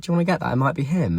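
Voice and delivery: high, pointed mock-innocent offer; high sassy dig at a cheating boyfriend; sassy retelling. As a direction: needle him with a sweet jab. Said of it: "Did feel quite sassy".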